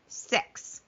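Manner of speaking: whispered for effect; whispered emphasis. Real, not acted. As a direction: whisper the number.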